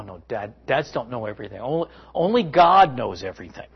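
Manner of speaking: ordinary talk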